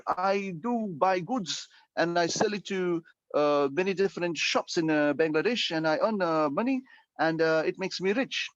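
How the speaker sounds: broken English. Shown as a demonstration. Teacher demonstrates broken English to the class. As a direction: plod through simple words. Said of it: "If you speak in broken English".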